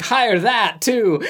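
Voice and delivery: drawn-out imitation of an eager boss; Mister Burns. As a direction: stretch every word of the mock command. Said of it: "He's like".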